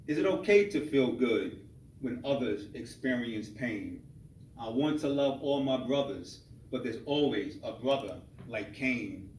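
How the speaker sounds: spoken-word reading in short, spaced phrases; measured spoken-word poem; poetry recital. Acted. Reads his second poem.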